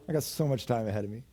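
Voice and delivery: laughing joke. Real, not acted. Joking about his own age.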